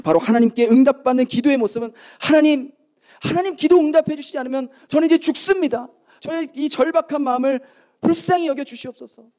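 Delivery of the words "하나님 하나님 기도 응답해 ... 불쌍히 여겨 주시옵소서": acted urgent plea, pitched high; earnest desperate prayer. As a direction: beg God as if life depends on it. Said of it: "그렇게 간절히 기도하는".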